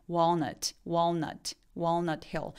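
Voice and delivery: "Walnut Hill" with dark swallowed L. Shown as a demonstration. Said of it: "다크L이라서".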